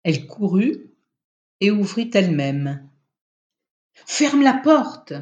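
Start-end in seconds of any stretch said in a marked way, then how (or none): 4.1-5.1 higher, louder, slow command; husband ordering his wife, a slow loud command. A narrator's reading. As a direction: order her firmly to shut the door. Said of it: "commanda Alain".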